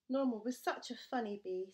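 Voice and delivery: a fond, wistful sigh. Acted. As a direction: bees sigh missing Norman. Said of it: "sighed the bees".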